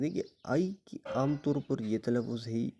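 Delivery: whispered aside to the class. Real, not acted. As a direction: drop into a whisper. Teacher aside while explaining. (سرگوشی میں)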